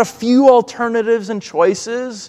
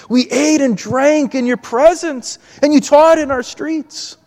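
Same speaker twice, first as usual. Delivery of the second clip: arguing, justifying; 6 semitones higher than usual. Acted. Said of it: "they try to argue and justify themselves".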